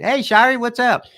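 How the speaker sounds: high, loud hillbilly greeting; dorky voice of a singer. Retold or imitated. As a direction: call out like a goofy small-town star. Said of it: "when you talk like him".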